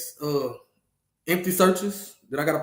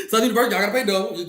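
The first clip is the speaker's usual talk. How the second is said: rattled off fast through laughter; can't keep a straight face while teasing; quick laughing taunt; 3 semitones higher, much faster than usual. Real, not acted. Teasing rival school while laughing.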